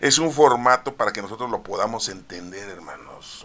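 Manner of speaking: emphatic preacher's restatement. Real, not acted. Repeats key line louder.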